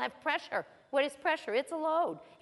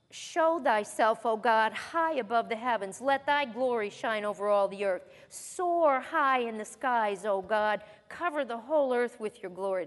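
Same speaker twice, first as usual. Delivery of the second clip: scripture reading; 3 dB louder than usual. Acted. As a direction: read it like holy scripture. Reads psalm aloud.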